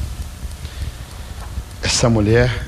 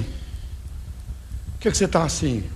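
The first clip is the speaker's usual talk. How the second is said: gossiping whisper; 8 dB quieter, slower than usual. Retold or imitated. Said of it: "Logo alguém diz".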